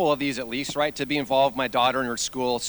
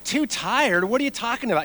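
higher, incredulous retort; mock incredulity; 6 semitones higher than usual. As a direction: act out a disbelieving dad. Exasperated dads answer the kid.

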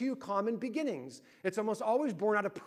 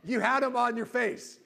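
exasperated berating; 6 semitones higher, 6 dB louder than usual. Retold or imitated. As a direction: imitate a wife rubbing it in, word by word. Wife berates him, retold.

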